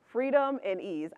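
"Freedom and ease" said slowly, each word given weight; slow, savoured repeat. Shown as a demonstration. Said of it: "my idea of prosperity is freedom and ease".

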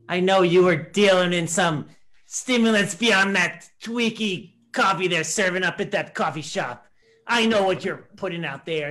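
sudden loud accusing outburst at the memorial. Acted. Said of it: "What an outburst".

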